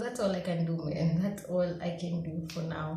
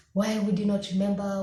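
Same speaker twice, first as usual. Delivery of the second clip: self-scolding; 5 dB louder, faster than usual. Retold or imitated. Scolding herself after the exam.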